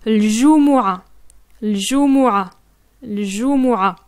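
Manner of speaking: l-jumu'a said carefully, each syllable spoken; clear l-jumu'a. Shown as a demonstration. Teacher showing the Friday prayer word. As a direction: model l-jumu'a. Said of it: "on dit".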